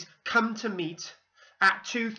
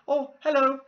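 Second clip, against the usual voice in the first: put-on high, loud French-accented greeting; a hammed-up French hello; 9 semitones higher, 7 dB louder than usual. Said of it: "in a French accent".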